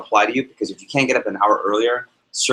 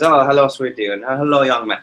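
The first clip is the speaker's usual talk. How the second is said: Indian professor voice; 3 semitones higher than usual. Retold or imitated. Professor greeting students at review session, a light Indian accent. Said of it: "he goes".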